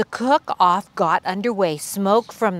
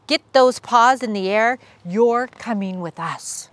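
squeaky commander; 2 semitones higher than usual. Acted. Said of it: "squeaked the Big Cheese".

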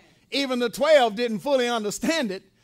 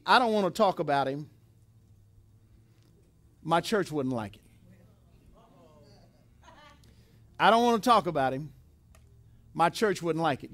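low, quick, evasive; mock fearful parents; 7 semitones lower, faster than usual. Parents dodging the Pharisees, lightly voiced and nervous. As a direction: mumble it like you want no trouble.

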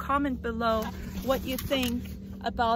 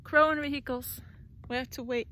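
ordinary talk, nothing marked

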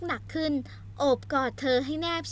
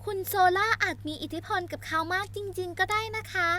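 worried maid; 6 semitones higher than usual. Acted. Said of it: "รวิตอบอย่างกังวล".

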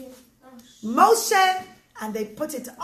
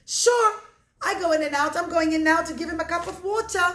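lightly voiced boy, a bit higher and quicker; eager little boy; 3 semitones higher, 3 dB louder than usual. Little Shmuel answers the worried man, eager and willing. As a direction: brightly agree to help.

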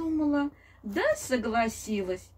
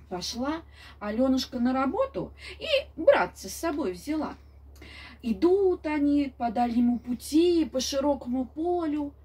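grandma telling fairy tale. A narrator's reading. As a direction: tell it like a grandmother at bedtime. (бабушка рассказывает сказку)

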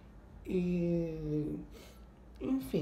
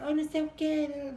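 higher, louder mock yell of the bar girl; imitated yell; 9 semitones higher, 3 dB louder than usual. Bar girl yells at the costumed girl, higher mock shout. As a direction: yell it shrilly like a rude boss. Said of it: "ela gritou alguma coisa com a menina".

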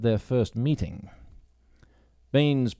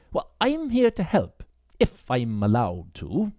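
put-on higher, hesitant young woman; young woman's voice; 3 semitones higher, slower than usual. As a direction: bite back the questions politely. Grace speaks.

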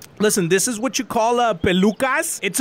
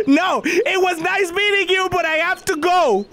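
dramatic farewell; 9 semitones higher than usual. Acted.

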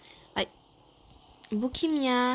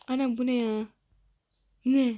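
louder, sharp surprised question; startled "what"; 3 semitones higher, 4 dB louder than usual. Real, not acted. Player startled by something on screen, surprised. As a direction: caught off guard by the screen. Sudden odd sight in game.

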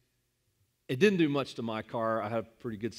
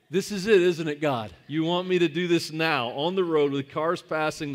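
loud protest aimed heavenward; raised voice, acted incredulity; exasperated plea; 4 semitones higher, 8 dB louder than usual. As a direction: call out to God in mock disbelief.

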